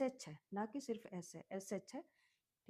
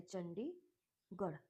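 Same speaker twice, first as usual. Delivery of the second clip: slow model word; 3 dB quieter, much slower than usual. Shown as a demonstration. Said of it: "चंडी का अलग से learn कर लीजिएगा".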